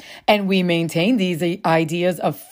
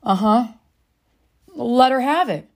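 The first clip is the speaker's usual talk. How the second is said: calm, detached; 4 semitones higher than usual. Retold or imitated. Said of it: "I said very calmly, very detached".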